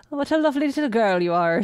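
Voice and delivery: lightly put-on Irish priest; bad Irish accent. Dublin priest greeting a little girl, in a bad Irish accent. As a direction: try a hammy Irish accent. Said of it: "I apologize for my bad accent".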